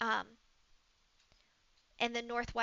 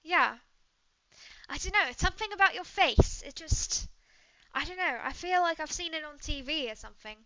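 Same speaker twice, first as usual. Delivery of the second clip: chatty British traveler; British woman, musing; 2 semitones higher, 6 dB louder, faster than usual. Acted. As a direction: puzzle it out in a British accent, then brush it off.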